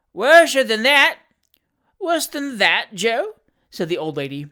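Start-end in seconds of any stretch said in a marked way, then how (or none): 0.1-1.2 slow, very loud, high roar. A narrator's reading. Fat boy correcting his deaf mistress, roaring slowly. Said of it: "roared the fat boy". 2.0-3.4 put-on high old lady's appalled echo; shocked question. A narrator's reading. Old lady horrified at Joe's news, shocked question. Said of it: "who had thought this the extreme limit of human atrocity".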